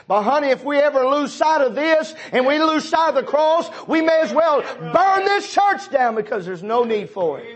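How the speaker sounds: rising pulpit cry that swells to a shout; preaching shout. Acted. Preacher warning the church not to lose sight of the cross, rising to a shout. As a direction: build to a ringing shout on "burn this church down".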